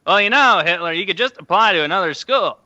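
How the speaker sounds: lightly voiced deadpan comedian impression; a hint of the comic's folksy delivery; Norm Macdonald. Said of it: "like, Norm Macdonald instead".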